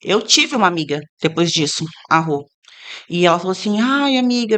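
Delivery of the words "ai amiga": mock tearful wail, slightly higher; a light whine of distress; imitated crying. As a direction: imitate a tearful friend calling. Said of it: "me ligou chorando, mas de soluçar".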